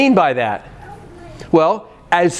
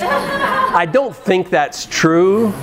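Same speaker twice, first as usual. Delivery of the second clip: laughing; 5 semitones higher, much slower than usual. Real, not acted. Denying kids' joke about wife's cooking.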